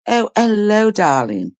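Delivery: hint of a sing-song posh greeting, pitch falling on darling; lightly sung-out hello, darling, like a genteel mother-in-law; mimicking mother-in-law. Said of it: "That's how she would speak".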